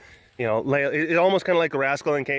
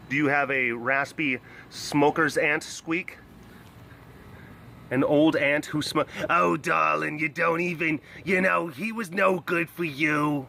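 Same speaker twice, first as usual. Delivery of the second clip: raspy smoker aunt; slower than usual. Pretend. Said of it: "That's kinda what Tawny sounds like".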